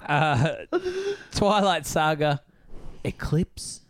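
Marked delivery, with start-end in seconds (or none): 3.0-3.8 a spooky whisper for a dreaded film; mock dramatic whisper. Host whispers the dreaded film title to the kids, hushed whisper.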